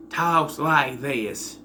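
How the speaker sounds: drawn-out Carolina twang on the vowels; put-on Southern accent, stretched vowels; mock Carolina accent. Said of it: "give him some kind of accent".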